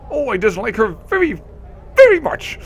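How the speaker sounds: exaggerated pout climbing up high on very much; hammed-up scowl that squeaks at the end; mock stern dislike. Nenny faking meanness about Marissa, a hammed-up pout. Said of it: "frowns deeply, almost exaggeratedly".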